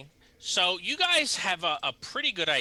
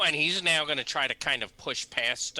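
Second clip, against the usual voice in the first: ordinary talk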